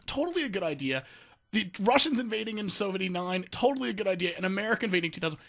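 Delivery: high-pitched sarcastic endorsement; mock enthusiasm. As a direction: sell it as a brilliant plan, sarcastically. France's reasoning, voiced sarcastically.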